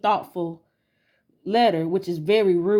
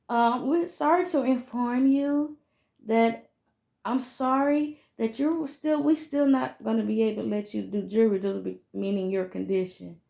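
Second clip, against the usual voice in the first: condescending caller; 3 semitones higher than usual. Retold or imitated. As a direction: break the news like to a child. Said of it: "they're gonna be like".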